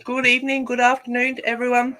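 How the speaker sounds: talking through a mouthful of chocolate; mouth full. Real, not acted. Host greeting viewers while eating, mouth full. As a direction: greet everyone round a bite of food. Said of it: "I've got a mouthful of chocolate".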